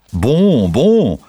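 luid en hoger, tevreden uitgeroepen; Franse gasten. A narrator's reading. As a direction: roep het als verrukte Fransen. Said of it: "riepen de Fransen". (Franse gasten roepen tevreden naar Pardoes)

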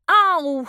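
put-on boy cries out after hitting the wall; ouch cry. A narrator's reading. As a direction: yelp as you bump your head. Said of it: "roept hij".

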